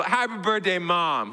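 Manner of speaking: put-on a lighter toddler echo; imitating toddler. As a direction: say it like a cheerful two-year-old. Toddler repeats his greeting.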